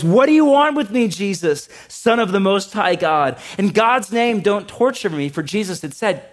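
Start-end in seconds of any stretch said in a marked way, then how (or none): 0.0-5.3 high, loud desperate demon shout. Acted. Possessed man shouting at Jesus, loud and high. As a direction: cry out at the top of your voice. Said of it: "He shouted at the top of his voice".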